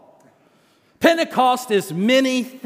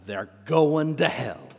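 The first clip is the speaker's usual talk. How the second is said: matter of fact; 3 semitones lower, 3 dB quieter than usual. Retold or imitated. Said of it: "with a matter of fact".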